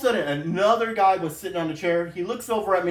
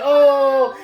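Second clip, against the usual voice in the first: loud, high imitated crowd "ooh"; crowd jeer; 7 semitones higher, 9 dB louder than usual. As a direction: mimic a whole room reacting to a burn. Crowd reacting to the comeback.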